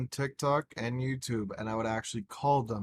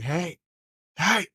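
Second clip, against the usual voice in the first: higher, louder retold "hey", second one bigger; excited calling out; 6 semitones higher, 6 dB louder than usual. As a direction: call to get mom's attention, building. Retold excited call to mom.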